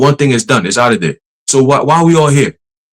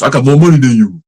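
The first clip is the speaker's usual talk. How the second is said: mock bragging; 4 dB louder than usual. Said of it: "Sound like Anton Daniels".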